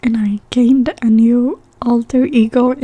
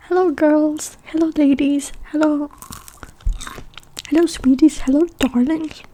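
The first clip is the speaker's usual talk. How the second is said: lightly imitated friendly locals, higher voice; nice friendly greetings; 4 semitones higher than usual. Scottish locals greeting visiting women, lightly imitated niceness. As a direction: greet them sweetly in a raised pitch. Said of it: "they were so nice".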